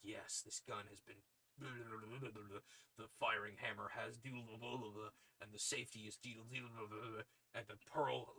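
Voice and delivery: throat-straining soldier voice, gushing over a gun; hardened operative lovingly listing gun parts; Solid Snake voice. Retold or imitated. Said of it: "I did not mean to give him a Solid Snake voice".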